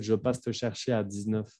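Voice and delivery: teacher showing a common student mistake; wrong example. Shown as a demonstration. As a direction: say it the wrong way, cutting off before heures. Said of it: "No pueden decir".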